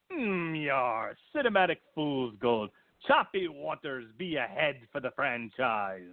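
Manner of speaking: a hint of a pirate; lightly voiced hammy pirate. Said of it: "I'm gonna do a stupid pirate voice".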